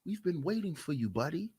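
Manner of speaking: soft, low sinister welcome; hushed ominous greeting; creepy archons. Retold or imitated. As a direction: lure him in like a cult. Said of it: "you know what they're gonna say".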